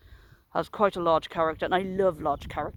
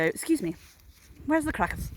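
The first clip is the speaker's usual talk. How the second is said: lightly voiced sweet old lady, lilting higher; 6 semitones higher than usual. Old lady asking shop worker for crackers, sweet voice. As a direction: imitate a polite, sweet little customer. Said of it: "had this very sweet voice".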